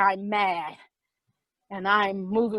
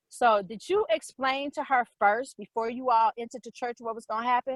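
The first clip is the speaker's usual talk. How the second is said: softly spoken mother impression; cool questioning; 5 dB quieter than usual. Mother questioning the sisters with arms crossed, quietly pointed.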